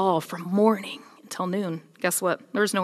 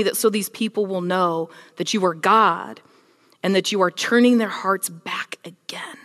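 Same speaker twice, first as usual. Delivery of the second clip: fervent prayer; 4 dB louder than usual. Acted. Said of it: "and prayed".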